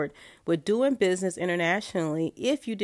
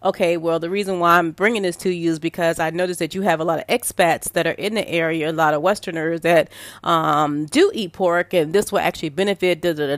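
sales pitch; 6 dB louder than usual. Retold or imitated. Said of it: "unless you're saying".

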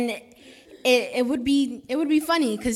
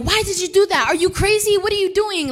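raised, higher voice, scolding in disbelief; imitating angry parents; 7 semitones higher, 4 dB louder than usual. Retelling parents scolding their daughter, mock angry. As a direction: throw the parents' outrage back at her. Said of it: "they were like".

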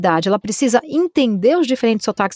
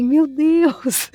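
higher-pitched retold astonishment; shocked reaction; 5 semitones higher than usual. Two voice artists reacting to a developer, shocked. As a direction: react in mild disbelief, pitched up.

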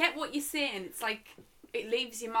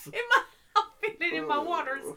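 laughing; 3 semitones higher, 4 dB louder than usual. Real, not acted. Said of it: "laughing at the phrase".

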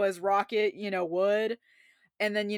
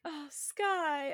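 Lila; 7 semitones higher, 5 dB quieter than usual. Retold or imitated. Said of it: "She's like".

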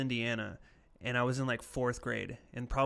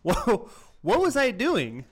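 high, slow, giggling self-mockery; laughing cringe; 8 semitones higher, 7 dB louder, slower than usual. Real, not acted. Recalling the embarrassing moment, laughing high and slow. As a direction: cringe at your younger self. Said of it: "I think about that now".

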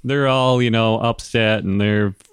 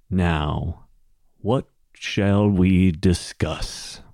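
slow, measured kingly voice; dwarf king; much slower than usual. Acted. King Dorgold to seated emissaries, slow and measured. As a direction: open the talks slowly and deliberately.

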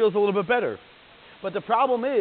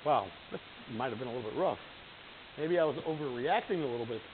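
low, soft voice of dawning regret; second thoughts; 5 semitones lower, 8 dB quieter than usual. Acted. Letter writer rereading the angry letter days later, quiet second thoughts. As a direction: murmur it as if admitting it to yourself. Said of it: "looking back at that letter and you're like".

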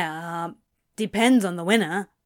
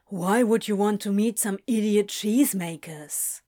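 incredulous. A narrator's reading. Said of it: "Crowley asked incredulously".

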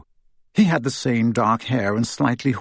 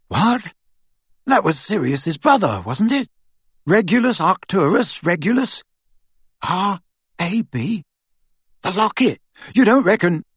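raised pitch, dawning excitement; excited realisation; 7 semitones higher than usual. A narrator's reading. Ron works out who R A B is, excitedly. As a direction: piece it together aloud, astonished.

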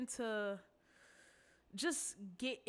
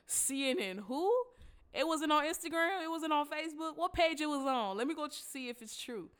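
incredulous mock friend; 6 semitones higher, 5 dB louder than usual. Friends mocking the news.

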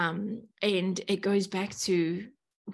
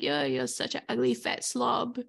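lower, sneering put-down of herself; inner critic voice; 5 semitones lower than usual. Retold or imitated. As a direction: voice the cruel inner critic with contempt. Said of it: "I would always be like".

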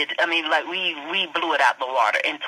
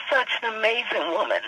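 tearful, voice pitched up; choked up; 4 semitones higher, faster than usual. Real, not acted. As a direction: say it close to tears. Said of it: "I'm trying not to cry".

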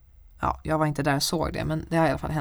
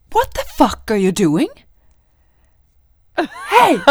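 loud high yell; retold scream; 7 semitones higher, 11 dB louder than usual. Victoria in pajamas screaming at the neighbour. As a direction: scream it off the balcony.

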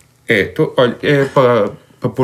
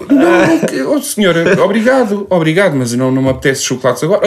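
polite refusal; 4 semitones higher than usual. Retold or imitated. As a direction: decline sweetly to the clerk.

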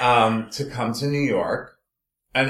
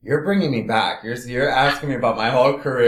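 laughing through tears; 3 semitones higher, 5 dB louder, faster than usual. Real, not acted. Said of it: "Oh my God".

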